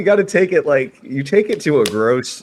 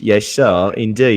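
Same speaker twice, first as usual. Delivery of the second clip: mock English accent; 3 dB louder than usual. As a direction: imitate your English friend's accent, teasingly. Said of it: "do I sound like that?".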